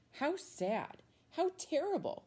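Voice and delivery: rising to a high, pitying wail; read-aloud lament, climbing high; dramatic lament. A narrator's reading. Story narration, dramatic lament.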